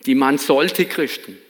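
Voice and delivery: punchy retold saying, light Baden accent; attempted Baden High German. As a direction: try it in Badisch-tinged High German, hitting each "sollte". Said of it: "im badischen Hochdeutsch, möchte ich's mal probieren".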